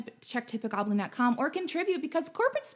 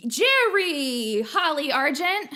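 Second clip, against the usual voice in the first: louder mock New York accent, shooing a viewer; 4 dB louder, slower than usual. Host greeting chat viewers, playful New York accent. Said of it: "Am I doing the New York accent all right?".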